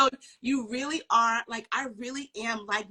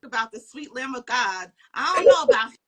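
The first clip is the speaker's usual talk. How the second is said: excited retelling; 9 semitones higher, 6 dB louder than usual. Retold or imitated. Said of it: "I was like".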